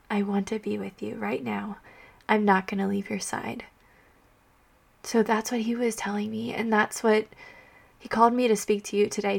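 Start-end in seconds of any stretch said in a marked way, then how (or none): 0.1-3.7 whispered. Retold or imitated. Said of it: "He just wants to be like".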